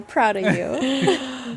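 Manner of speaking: very slow, stretched fond praise; tender praise. Acted. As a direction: draw it out like a proud parent. Praising friend, drawn out.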